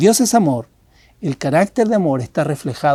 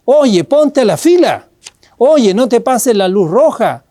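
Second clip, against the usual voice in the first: raised, higher call like a guard at a crossing; guard's mock shout; 4 semitones higher, 3 dB louder than usual. Pastor voicing conscience as a guard yelling at you: raised mock shout. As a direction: shout a warning at a rule-breaker, half-acted. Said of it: "un guardia que te grita".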